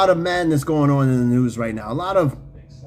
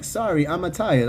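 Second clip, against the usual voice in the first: lightly voiced cartoon Italian plumber, near the usual voice; Mario; 3 dB quieter than usual. Host repeats the eight ball's answer to show how it talks, light Mario imitation. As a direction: toss off a slight game-plumber imitation. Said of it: "it talks like Mario do".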